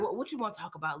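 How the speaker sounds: low, soft reluctant question; retold resignation. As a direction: give in quietly, imitating her. Retold giving in to pressing.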